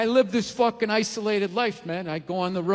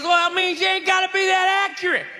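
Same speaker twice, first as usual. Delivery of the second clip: loud, higher gun-store redneck hyping the shotgun; excited redneck shout; 5 semitones higher, 3 dB louder than usual. Acted. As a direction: yell it like a gun nut loving his spread. Gun clerk selling shotgun, shouting.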